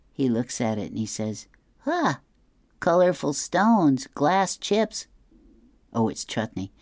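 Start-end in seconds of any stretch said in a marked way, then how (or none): 1.9-5.1 Curtis voice. Acted. Curtis inspects the mosaic.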